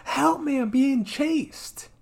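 high, hammed-up cry for help; imitating a terrified girl on the radio; mock panicked cry. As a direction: squeal it like a horror victim. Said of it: "gets on the radio and goes".

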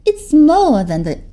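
put-on a big girl calming her scared friend; soothing older girl. Gabby advising.

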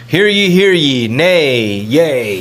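lightly hammed-up ceremonial calling; mock town crier. Podcaster mocking procedural formalities, lightly as a town crier. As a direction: proclaim it with a touch of pomp.

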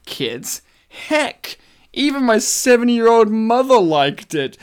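deliberate, punchy read-aloud; emphatic review reading. Acted. Reading a friend's review aloud, emphatic recital. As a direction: present it like a proud testimonial. Reads out a listener's movie review.

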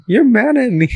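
high, whiny imitation of a weepy drunk; mock tearful insistence. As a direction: whine it like a tearful drunk friend. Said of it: "she kept going on and on".

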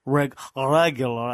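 thick put-on Russian accent; Ivan impression. Redoing "regular" like the YouTuber, mock Russian accent. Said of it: "as Ivan would say on the YouTube?".

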